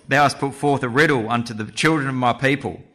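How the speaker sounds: a lightly put-on girly wife's voice, "children" leaned on; attempted girly voice. Samson's wife complaining to Samson, in a lightly put-on girly voice. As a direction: accuse him gently in a half-hearted girly voice. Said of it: "Can't do my very good girly voice".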